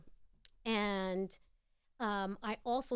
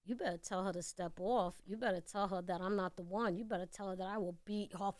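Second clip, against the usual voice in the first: building threat; 6 dB louder than usual. Retold or imitated. Threatening the rival rapper.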